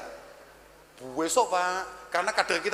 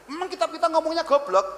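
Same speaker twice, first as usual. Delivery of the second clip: higher and louder punchline; emphatic; 10 semitones higher, 3 dB louder than usual. Shown as a demonstration. Telling the audience what the book says, loud and emphatic. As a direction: hit it loud and high. Repeats the line twice.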